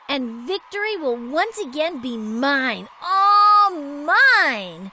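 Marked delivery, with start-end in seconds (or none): 3.0-4.9 louder villainous gloat. Acted. Diva boasting her victory is certain, gloating villain. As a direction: savour the win already.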